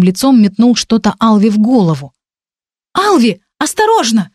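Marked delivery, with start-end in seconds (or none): 2.9-4.3 sharp high call of warning; warning cry. Acted. Heroine warns Alvi of thrown mace, high warning cry. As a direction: cry out to warn him of the blow. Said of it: "крикнула я".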